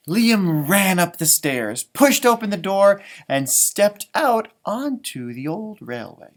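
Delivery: measured picture-book reading; storybook reading voice; story narration. A narrator's reading. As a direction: read it out to children, unhurried. Reads the book aloud.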